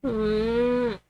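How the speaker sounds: put-on crying child. Lost child calling for mommy, crying. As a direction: whimper for mommy in a small high voice. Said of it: "voicing crying characters".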